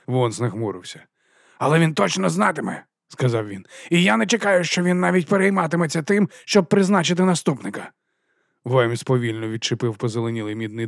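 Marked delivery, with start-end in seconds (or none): 1.6-7.9 haughty dismissal. A narrator's reading. Vons taking Vimes's badge, high haughty tone. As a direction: order him off.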